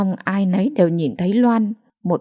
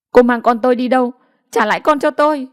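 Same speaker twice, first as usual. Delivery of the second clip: desperate cry; 4 semitones higher, 4 dB louder, faster than usual. Acted. Mother's child snatched away.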